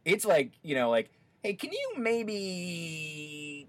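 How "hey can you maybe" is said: high, loud, drawn-out cartoon Mexican accent; slow, exaggerated fake Mexican accent; mock Hispanic accent. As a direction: stretch it out in a hammed-up Chihuahua-ad Spanish accent. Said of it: "to be doing this sort of accent".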